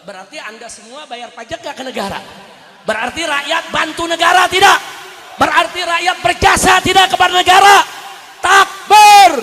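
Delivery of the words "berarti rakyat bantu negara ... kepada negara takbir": loud, shouting sermon at full force; fiery preaching. Acted. Preacher rousing the crowd against corrupt officials, shouting. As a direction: hammer each phrase at the crowd.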